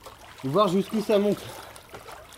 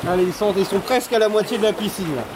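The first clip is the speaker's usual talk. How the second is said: excited play-by-play, climbing higher; live race commentary; 3 semitones higher than usual. Pretend.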